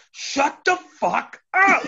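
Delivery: high, drawn-out retold outburst; really angry. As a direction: play it angry and over the top. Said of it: "like, really angry and stuff".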